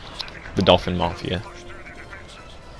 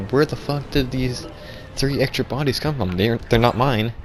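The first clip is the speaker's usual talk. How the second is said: surprised; 4 semitones higher than usual. Retold or imitated. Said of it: "I was very surprised".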